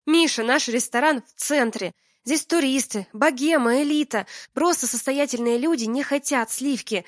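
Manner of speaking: heated lecture. Acted. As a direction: hammer the point home. Алина отчитывает мужа.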